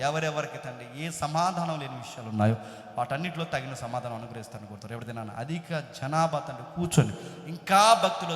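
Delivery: steady, flowing prayer addressed to the Father; congregational prayer. Real, not acted. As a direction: lead the congregation in earnest closing prayer. (ప్రార్థన స్వరంలో ధారాళంగా)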